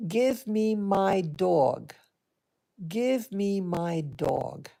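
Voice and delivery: slow, insistent, word by word; emphatic demand. Retold or imitated. Eldest boy demanding her dog, slow and insistent. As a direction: press the demand home, unhurried. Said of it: "he said very emphatic".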